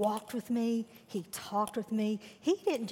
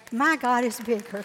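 louder declaration; 2 semitones higher, 5 dB louder than usual. Real, not acted.

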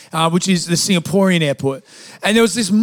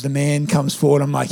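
ordinary talk, nothing marked

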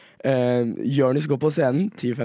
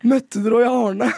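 higher, slow, louder eager Harstad lady; local woman's question; 8 semitones higher, 3 dB louder than usual. Retold or imitated. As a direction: ham up the lady's question with a high voice. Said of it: "som var sånn".

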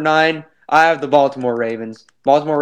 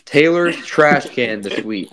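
flat deadpan, no emotion at all; emotionless. Pretend. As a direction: read it like a robot, short and blank. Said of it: "I'm gonna show no emotion whatsoever".

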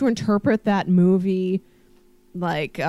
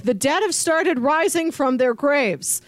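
emergency broadcast; 4 semitones higher than usual. Retold or imitated.

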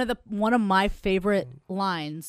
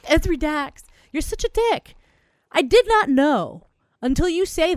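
excited yelling; 8 semitones higher than usual. Real, not acted. Angry mock rant.

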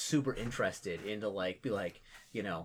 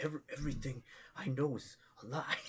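confused orc; 3 semitones higher, 4 dB quieter than usual. Acted. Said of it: "be like".

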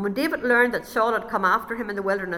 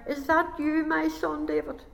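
higher, wavering call with a little laugh; old king calling out; 7 semitones higher than usual. Acted. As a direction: give it a touch of dramatic effect. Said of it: "Just putting a wee bit of effect on there".

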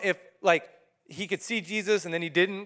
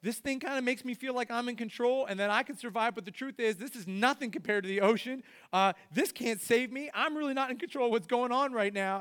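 Peter realizing; 4 semitones higher than usual. Acted. Peter in the storm, admitting the boat can't save him. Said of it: "and he's like".

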